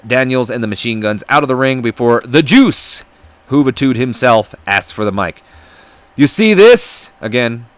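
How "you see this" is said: loud, high put-on Hispanic accent; wrestler's promo in a bad Hispanic accent. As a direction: hype it up in a hammed-up Hispanic accent. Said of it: "my horrendous Hispanic accent".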